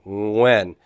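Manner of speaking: "Nguyen" begun with a nasal ng; initial ng sound. Shown as a demonstration. Teacher using a Vietnamese name to show ng. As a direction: say "Nguyen" with an ng start. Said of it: "We don't really have that sound as a, as an initial sound".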